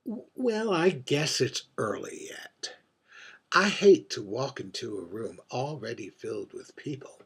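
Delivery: arch, world-weary drag queen holding court at a bar; lightly voiced aging diva, wry and wistful over her gin; mature drag queen. A mature drag queen at the bar confides in the invisible bartender, arch and wistful.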